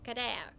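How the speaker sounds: "Claire" said as "ku-de-a"; "Claire" falling, in three syllables, "ku-de-a"; Japanese pronunciation. Shown as a demonstration. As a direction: tap the L in "Claire" like an R. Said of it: "It was like an Americanized version of, of this".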